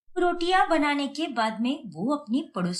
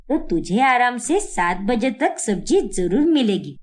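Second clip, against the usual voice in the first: bossy mother-in-law; 4 semitones lower, 4 dB louder than usual. Acted. Mother-in-law explaining orders.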